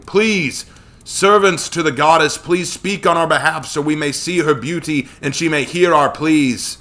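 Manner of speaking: high, ringing, formal appeal to a goddess; loud invocation. A narrator's reading. Joshua kneels at the pool summoning Artemis, loud invocation. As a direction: call out as if across water, beseeching. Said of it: "His voice echoed over the waters".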